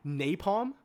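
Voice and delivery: loud, high-pitched, insistent listing; worked-up fan pressing the case; impassioned arguing. Real, not acted. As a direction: pile up the evidence with rising fervor. Heatedly arguing his pick's case.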